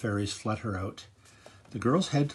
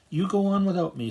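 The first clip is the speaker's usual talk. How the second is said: calling out; 8 semitones higher, 8 dB louder than usual. A narrator's reading. Sophia calls to departing friends.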